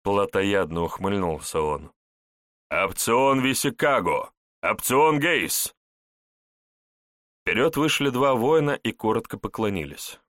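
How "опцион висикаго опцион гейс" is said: slow commanding call. Acted. Centurion summons officers.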